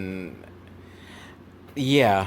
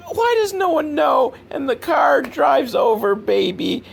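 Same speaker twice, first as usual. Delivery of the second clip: exasperated shout; 13 semitones higher than usual. Real, not acted. Viewer ranting at the film, exasperated shout. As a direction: shout it out in disbelief. Exasperated rant about the movie.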